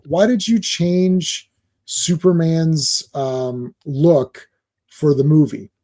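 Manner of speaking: slow, hesitant nice fan asking meekly; timid polite fan. Retold or imitated. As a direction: ask it shyly and haltingly, not attacking. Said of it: "I'll say it the way he really said it".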